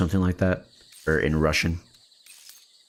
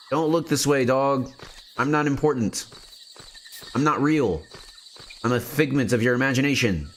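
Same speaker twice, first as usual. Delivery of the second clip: lightly put-on higher voice, coaxing a dog; mock persuasion; 6 semitones higher than usual. Sneaking player telling a dog to look away, mock coaxing. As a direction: playfully talk the dog out of noticing.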